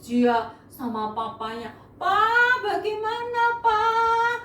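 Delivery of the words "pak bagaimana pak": high, wailing sobbing plea; mock crying. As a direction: wail to father in mock tears. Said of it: "dia nangis".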